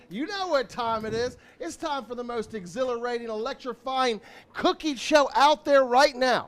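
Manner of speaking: booming hype host intro. Acted. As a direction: sell the show like a grill dad. Hyped show intro.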